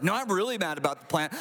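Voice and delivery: quick, acted insistent annoyance; really mad. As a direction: insist on the anger, hitting "really". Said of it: "He's like".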